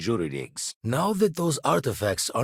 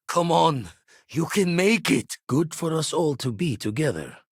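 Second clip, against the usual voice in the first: urgent urging; 6 semitones higher than usual. Acted. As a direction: spur a comrade on, pitched high. Urging Rook to make it.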